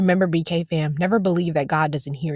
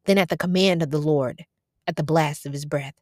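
scripture reading. Acted. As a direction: read the psalm out with steady weight. Reads scripture aloud.

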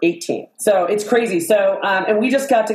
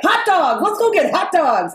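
high, eager mock craving; retelling a friend's hot dog craving, higher and eager; 8 semitones higher than usual. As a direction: imitate a friend begging for hot dogs. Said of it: "And then she's like".

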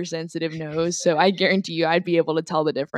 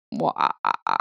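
hammed-up fake "ha ha"; mock laugh; faster than usual. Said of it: "Join us as we laugh".

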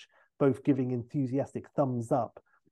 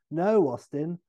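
Basil; 4 semitones higher, 5 dB louder than usual. Retold or imitated. Basil and Austin back-and-forth, high.

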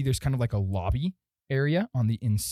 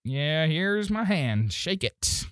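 that kind of guy; 3 semitones higher, slower than usual. Acted. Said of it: "Glib is gonna be that kind of guy".

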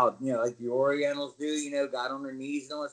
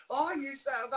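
very high, wailing curse; hammed-up high-pitched outburst; pained cursing; 12 semitones higher, faster than usual. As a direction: re-enact swearing through pain. Acted cursing during the hold.

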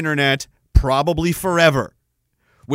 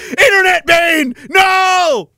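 high, loud hammed-up villain shout; villain cry; 12 semitones higher, 6 dB louder, slower than usual. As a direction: bellow it like a comic-book villain. Mock villain proclamation.

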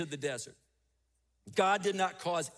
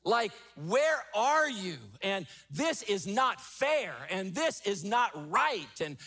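raised, slow lament to God, pleading; crying out to God. Retold or imitated. Preacher voicing a hurting believer crying out to God, slow lament. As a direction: plead with God, drawn out and aching. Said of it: "cry out to God and say".

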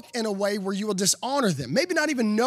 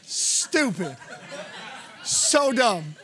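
mock groan through laughter; much slower than usual. Mock outburst at dad's pun.

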